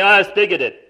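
imitating a loud, indignant objection; mock outraged world. Preacher mocks the world calling the gospel bigoted, loudly. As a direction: play the offended critic. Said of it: "they say".

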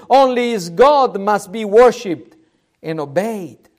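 lifted preacher's proclamation; emphatic declaration. Acted. Preacher voices what the people must now declare, emphatic declaration. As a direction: hammer each "only" as a fervent creed.

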